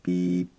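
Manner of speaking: low, even imitated beep; mild sine beep. Shown as a demonstration. Teacher imitating an alert that needs no strong reaction, mild beep. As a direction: sound out a gentle computer alert on one low note. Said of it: "they'll be more sine waves".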